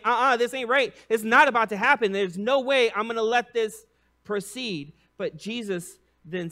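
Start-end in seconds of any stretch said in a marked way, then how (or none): 0.0-4.9 higher, loud, flat no; indignant refusal. Retold or imitated. Peter insisting the foot washing won't happen, indignant. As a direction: dig in and refuse. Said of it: "he's, like, saying".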